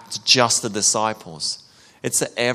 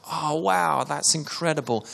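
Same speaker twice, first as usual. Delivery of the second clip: mock amazement; 4 semitones higher, 4 dB quieter than usual. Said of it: "one minute, it's like".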